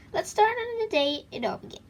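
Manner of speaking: high, bright announcing read; dramatic start. Shown as a demonstration. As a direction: launch the opening with flair. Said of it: "that's a start, but it's not very exciting".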